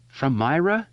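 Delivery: startled man asking through the door; alarmed. A narrator's reading. Kasprak asks Henry in alarm through the door. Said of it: "He sounded alarmed".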